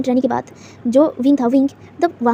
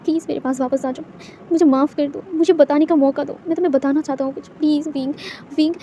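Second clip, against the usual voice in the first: softer, tearful begging; a mild weeping plea to come back; crying plea; 3 semitones higher, 3 dB quieter than usual. Acted. Boss begs leaving Wing, softly tearful. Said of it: "रोते हुए कहता है".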